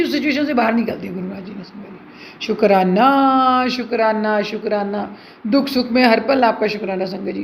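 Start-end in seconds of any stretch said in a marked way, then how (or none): 2.5-5.2 drawn-out, fading words of thanks; slow thankful murmur. Real, not acted. Grateful prayer to Guru ji. (धीमे, डूबते स्वर में शुक्राना)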